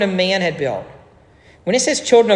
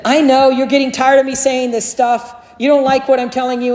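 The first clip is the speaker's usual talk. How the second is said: put-on higher, louder preacher quote, no real accent; a raised pulpit voice warning the flock; imitating Alistair Begg; 7 semitones higher, 4 dB louder than usual. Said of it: "I wish I could say it with a Scottish accent".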